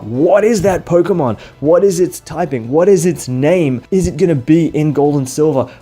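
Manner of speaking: excited puzzled questioning. Retold or imitated. Retelling kids trying to figure out a mystery Pokemon, excitedly baffled. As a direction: imitate eager fans demanding answers.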